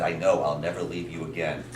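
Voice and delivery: low, soft little apology; baby bear in story. Acted. Baby bear promises daddy to stay, soft low reply. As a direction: promise it meekly, lightly acted. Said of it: "And he said".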